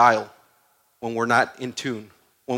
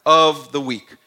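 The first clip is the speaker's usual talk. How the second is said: "Of" hit loud with a falling tune; emphatic, louder "Of" to highlight the key word; stress on Of; 5 dB louder, slower than usual. Real, not acted. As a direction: punch "Of" hard, then finish "the weak". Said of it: "Highlight that in your mind".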